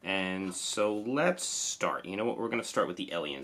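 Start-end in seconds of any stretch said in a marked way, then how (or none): 3.1-3.4 "Alien" said with the speaker's own Jersey accent. Real, not acted. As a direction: say "Alien" the Jersey way, as a Jersey native would. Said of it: "that's how I say Alien".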